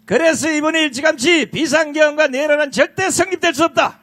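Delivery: shouting. Real, not acted. Rally speaker denouncing, crowd.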